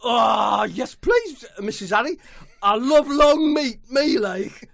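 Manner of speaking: high, loud scouse footballer voice; high-pitched footballer caricature; Jordan Henderson voice. Acted. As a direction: squeal it like an overexcited footballer.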